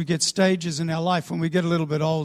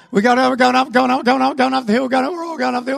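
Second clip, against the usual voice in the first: louder, higher excited repetition; excited climbing; 5 semitones higher, 4 dB louder, faster than usual. Acted. Preacher acting out the crowd climbing the hill, excited. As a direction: build the excitement with every repeat.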